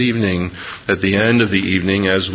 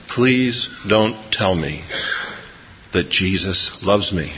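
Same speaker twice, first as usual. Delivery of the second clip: pleading; 4 dB quieter, slower than usual. Retold or imitated. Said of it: "She said".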